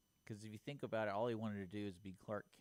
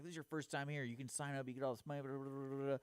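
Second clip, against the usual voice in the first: frustrated buddy; 6 semitones higher than usual. Retold or imitated. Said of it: "he got so frustrated".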